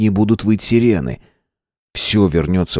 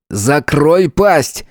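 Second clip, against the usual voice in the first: a slow, higher cutting order; curt cold snap; 6 semitones higher, much slower than usual. A narrator's reading. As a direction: bite the words off slowly and coldly. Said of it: "отрезал Дмитрий".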